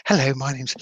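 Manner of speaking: lightly imitated plummy English accent. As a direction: put on a touch of a plummy, privately schooled accent. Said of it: "had a very plummy accent".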